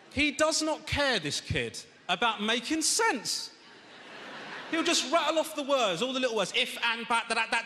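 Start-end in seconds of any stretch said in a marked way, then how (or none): 0.1-6.2 exasperated rant. Acted. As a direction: rant about the kid, dragged out. Ranting about son's reading.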